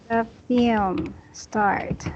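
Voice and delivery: slow, deliberate words, stress on film; slow model phrase. Shown as a demonstration. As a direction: spell it out slowly for the student.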